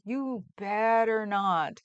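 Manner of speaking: slow, drawn-out warning. Retold or imitated. Viewer warning a skateboarder, slow and pointed. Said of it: "I was just like".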